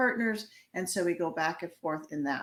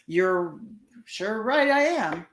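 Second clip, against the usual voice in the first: upset partner; 5 dB louder, slower than usual. Acted. Upset partner quoted in example.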